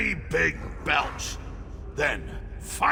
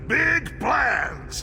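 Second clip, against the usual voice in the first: excited exclaim; 8 semitones higher than usual. Acted. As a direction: burst out with glee. Chief exclaims his big plans.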